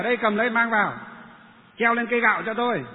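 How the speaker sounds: brisk authority, voice lifted; firm command. Retold or imitated. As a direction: order the workmen about forcefully. Retold orders given to workmen.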